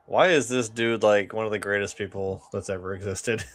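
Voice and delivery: usual speaking voice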